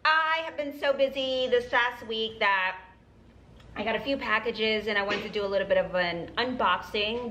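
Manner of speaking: talking while chewing gum; words round a piece of gum. Real, not acted. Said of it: "Sorry, I'm chewing gum".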